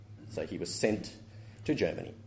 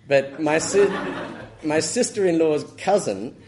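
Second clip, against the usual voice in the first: laughing; 8 semitones higher, 8 dB louder than usual. Real, not acted. Laughing at own story.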